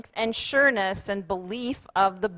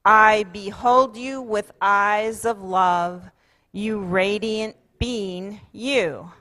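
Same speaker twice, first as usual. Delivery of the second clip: group affirmation; 4 dB louder, slower than usual. Shown as a demonstration. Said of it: "So say it once with me".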